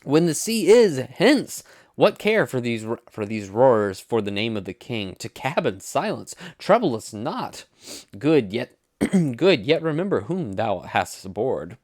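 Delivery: exaggerated Shakespearean stage voice, swooping up and down; boatswain and company. Boatswain rebuking passengers during storm, grand theatrical declaiming. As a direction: declaim it loudly with big melodic swells.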